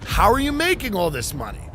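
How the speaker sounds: incredulous interrogator; hammed-up confusion; mock Saudi official. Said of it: "Saudi officials were going".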